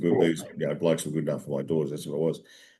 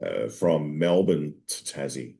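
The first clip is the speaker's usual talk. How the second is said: excited Dave; 2 semitones higher than usual. Retold or imitated. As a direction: gush it out like a kid with a wish. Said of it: "Dave goes".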